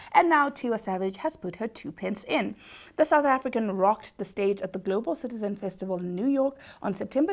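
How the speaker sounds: scripted presenter delivery with punched key words; entertainment news read. Acted. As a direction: read it out like a celebrity news story. Presenter reads celebrity news item.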